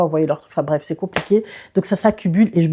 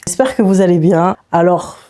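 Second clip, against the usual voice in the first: throaty sore-throat voice; swollen tonsils voice; 5 dB louder than usual. Real, not acted. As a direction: talk through swollen tonsils. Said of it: "écoutez-moi, cette, cette voix".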